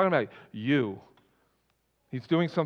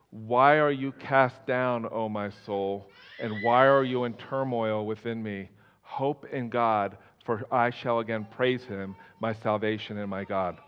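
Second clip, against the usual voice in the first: slow, low, solemn reading; measured, lowered scripture voice; 5 semitones lower, 3 dB quieter than usual. Acted. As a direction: read the psalm slowly and low. Reads the psalm aloud.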